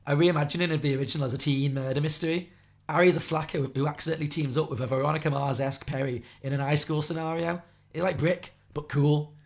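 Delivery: put-on loud young chav with a Scouse accent; chavvy Scouse accent. Shown as a demonstration. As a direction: read it out loudly in exaggerated childhood Scouse. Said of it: "go back to my Scouse accent".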